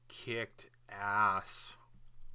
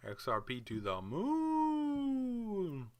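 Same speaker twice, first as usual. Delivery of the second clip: slow, drawn-out breathy whisper, much higher; hyped whisper; 11 semitones higher, much slower than usual. Real, not acted. Vlogger whispering his crypto hopes, slow and hushed. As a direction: breathe it like a secret prayer. Hyping his coin alone.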